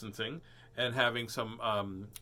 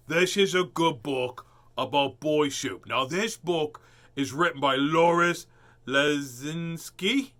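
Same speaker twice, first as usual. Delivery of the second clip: louder put-on show voice; 2 semitones higher, 6 dB louder than usual. Shown as a demonstration. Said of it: "I wanna do the voice again".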